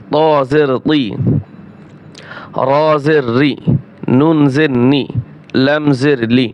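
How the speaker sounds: slow, measured singsong letter recitation; Qaida spelling drill. Shown as a demonstration. Teacher models Arabic letters for learners, measured drill recitation. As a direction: recite each letter evenly, drawing out the final vowel.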